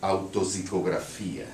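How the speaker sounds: title read with a Brazilian Portuguese accent. Shown as a demonstration. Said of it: "read the poem with a Brazilian accent".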